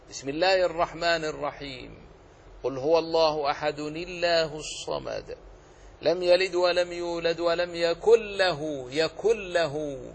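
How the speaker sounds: measured tajweed recitation; teacher reciting an example verse; Quran recitation. Shown as a demonstration. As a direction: recite with careful, even tajweed. Recites Surat al-Ikhlas.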